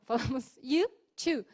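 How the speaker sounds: to said short and clipped; short vowel. Shown as a demonstration. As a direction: keep the O in to short. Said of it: "É mais curtinho". (to curtinho)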